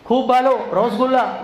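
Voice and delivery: mock Bengali accent; lightly imitating a Bengali man boasting; a hint of Bengali accent. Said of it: "तो एक बार तो वो बोलेगा".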